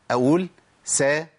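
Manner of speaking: سا said slowly with open a; sin with fatha. Shown as a demonstration. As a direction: stretch the vowel in سا. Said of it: "تحريك السين بالفتح".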